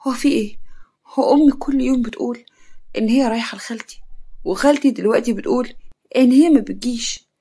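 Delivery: bewildered talking to oneself; dazed. Acted. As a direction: puzzle it out, mildly stunned. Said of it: "يارا بذهول".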